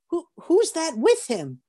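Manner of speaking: high, puzzled whisper-free question of a curious angel. Acted. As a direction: ask like a startled onlooker in heaven. Angels peering at newcomer.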